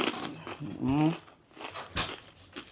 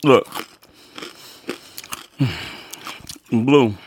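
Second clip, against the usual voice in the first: calling out; 3 semitones higher, slower than usual. Real, not acted. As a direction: call Blue to look. Calling out to Blue.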